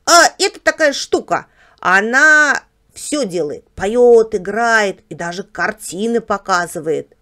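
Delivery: Barbos the house dog. Acted. House dog explains television to guest, proud. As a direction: show off the marvel, stretching key words.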